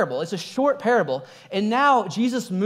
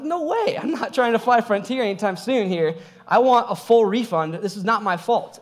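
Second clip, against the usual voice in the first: indignant; 3 semitones higher than usual. Retold or imitated. Retold indignant refusal to airline.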